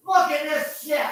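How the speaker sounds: high, excited cry of disgust; high exclaim at the sad corn. Real, not acted.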